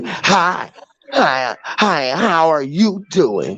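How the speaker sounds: over-polite and hollow, mimicking; mock fake politeness. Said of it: "They don't say".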